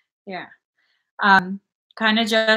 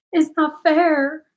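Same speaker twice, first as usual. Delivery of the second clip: whine; 6 semitones higher, slower than usual. Real, not acted. Whining about food allergies.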